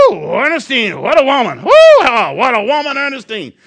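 high, loud hooting suitor; male eagle voice. Pretend. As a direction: whoop like a smitten bird. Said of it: "I'm gonna give the eagle".

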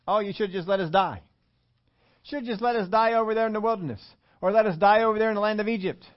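high, hammed-up martyr's plea; mock complaining. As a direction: whine it like a put-upon grumbler. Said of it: "they begin to complain".

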